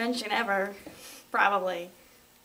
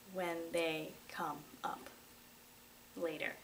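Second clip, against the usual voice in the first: teasing whisper; 3 semitones lower, 10 dB quieter than usual. Real, not acted. Teasing future conventions.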